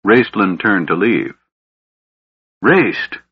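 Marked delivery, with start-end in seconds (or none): 2.6-3.2 agonized cry. A narrator's reading. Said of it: "Caramon's agonized cry halted him".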